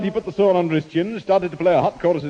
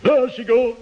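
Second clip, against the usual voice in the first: melodrama villain; 3 semitones higher than usual. Retold or imitated. Old actor playing the wicked villain for the boy, hammed-up. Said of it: "that's me as the wicked Sir Jasper".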